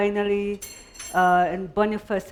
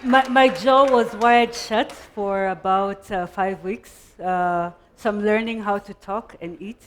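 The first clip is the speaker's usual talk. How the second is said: talking through braces after jaw surgery; lisping. Real, not acted. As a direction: lisp from braces. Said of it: "I'm lisping".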